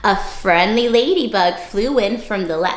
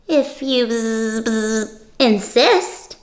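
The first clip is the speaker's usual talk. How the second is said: buzzing yellow jacket; much slower than usual. Acted. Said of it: "said the yellow jacket".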